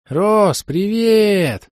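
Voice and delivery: high, bright and slightly hoarse greeting; slightly hoarse, joyful. Acted. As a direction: call out happily with a touch of rasp. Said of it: "чуть хрипловатый радостный голос".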